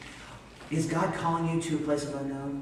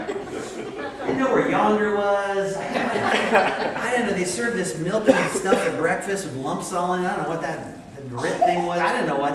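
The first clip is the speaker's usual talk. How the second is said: laughing; 3 semitones higher, 5 dB louder, slower than usual. Real, not acted. Laughing about Alabama culture shock.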